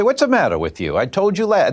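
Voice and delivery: indignant telling-off, leaping high; imitated scolding. Aunt talking back to her doctor, exasperated. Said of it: "that's how she talked to her doctor".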